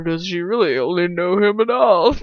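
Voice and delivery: put-on, drawn ponderous reading; mock philosophical. Redoing her own narration, mock philosophical. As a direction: overdo the musing.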